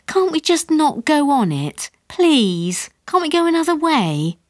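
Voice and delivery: high anxious pleading wife; pleading mother. A narrator's reading. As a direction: beg him nervously, voice high. Mother begs to avoid road.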